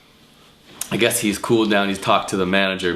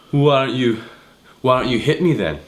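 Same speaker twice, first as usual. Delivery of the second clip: raised, higher taunting voice; mock angry challenge; 6 semitones higher, 4 dB louder than usual. Drunk guy taunting the bouncer, higher and louder. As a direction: dare him to hit you, voice up.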